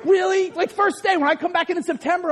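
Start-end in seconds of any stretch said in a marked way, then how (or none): 0.0-0.5 incredulous "really?" through a laugh; amused, high "Really? Really?"; laughing disbelief. Retold or imitated. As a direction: laugh as you question it. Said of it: "I'm like".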